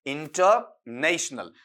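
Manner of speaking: इंटरनेशनल slowly, split after इंटर; drawn-out model of इंटरनेशनल; slow pronunciation demo. Shown as a demonstration. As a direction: piece इंटरनेशनल together in long, careful chunks. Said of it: "क्या बन गया आपका".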